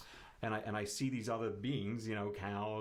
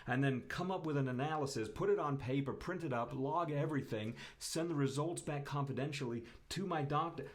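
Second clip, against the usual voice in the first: mock-frustrated griping, laughing through it; sarcastic complaint; 4 semitones higher than usual. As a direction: pile on the steps with sarcastic outrage. Sarcastic rant about blood tests.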